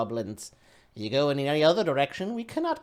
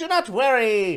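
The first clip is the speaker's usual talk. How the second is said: put-on Imperial accent, much slower; 5 semitones higher, 7 dB louder than usual. A figure trotting on a wolf addresses the humans: best Imperial accent. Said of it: "he says in his best Imperial comment".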